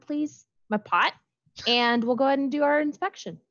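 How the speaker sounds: in-character beetle, smug and bossy. Acted. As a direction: sass the crew from inside the pot. Player voices beetle figure.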